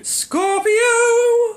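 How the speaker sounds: high, loud theatrical villain cry; Bond villain voice. Acted. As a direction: shout it like a mad villain. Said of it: "You do".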